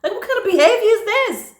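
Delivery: high-pitched incredulous indignation; real anger. Real, not acted. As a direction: demand an answer, outraged. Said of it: "I feel angry just thinking about it".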